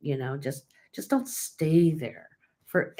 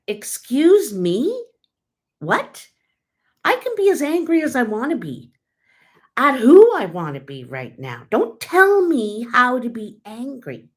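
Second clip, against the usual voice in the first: raised, higher, fast, offended pushback; retelling her angry reply to a friend, higher and louder; indignant retort; 6 semitones higher, 7 dB louder than usual. Retold or imitated. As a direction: snap back at the friend with outrage. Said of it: "I was probably angry for about three or four days".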